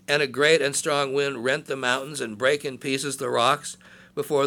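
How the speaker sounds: loud, declaiming Bible reading; scripture reading. Acted. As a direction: proclaim the verses to the congregation. Reads scripture aloud.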